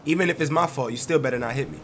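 stuffy, clogged-up voice; congested voice. Real, not acted. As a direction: sound like you have a cold. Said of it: "my voice sounds, like, congested and clogged up".

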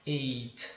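Eight with a puffed final t; breathy t. Shown as a demonstration. Teacher showing the aspirated t, puff of air. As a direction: blow out the t of Eight. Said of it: "Como fosse uma sopradinha".

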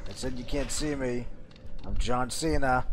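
quiet repeated catchphrase; John Cena impression. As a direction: drag out the catchphrase softly.

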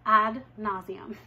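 dry punchline. Real, not acted. Wry punchline after repeated scene.

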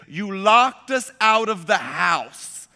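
slow, emphatic mock accusation; wife's accusation. Retelling wife's call after being locked out, emphatic accusation. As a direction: lay out the charge word by word. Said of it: "She said".

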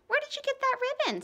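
questioning. Acted. Mother questions son.

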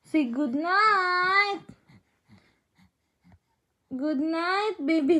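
gentle bedtime coaxing. Real, not acted. Coaxing baby to say it.

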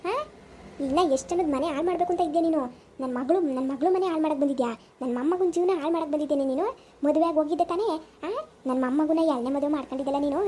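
angry scolding, question upon question; mouthing off angrily. Acted. Grandmother accuses the woman of wrecking her daughter's home, angrily. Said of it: "ಇವಾಗ ಏನು ಇಷ್ಟೊಂದು ಬಾಯ್ ಮಾಡ್ತಾ ಇದ್ಯಾ".

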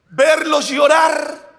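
slow emphatic shout. Real, not acted. Pastor contrasts his two alternatives.

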